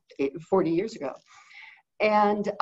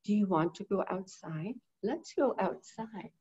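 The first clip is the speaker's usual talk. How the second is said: softer, each word spelled out slowly; slow, clear enunciation; 7 dB quieter than usual. Shown as a demonstration. Owner showing how to speak to a bird, slow and clear. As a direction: say it carefully, word by word. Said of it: "you don't say".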